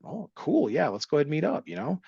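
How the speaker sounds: high, bright mock enthusiasm; pitching his own reply way up, mock keen; mock eager. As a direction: squeak out a hammed-up oh cool. Mock eager agreement to meet.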